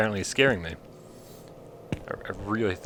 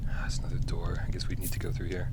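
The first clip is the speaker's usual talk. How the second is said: whispering. Real, not acted. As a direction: whisper to yourself in the dark. Creeping in horror game.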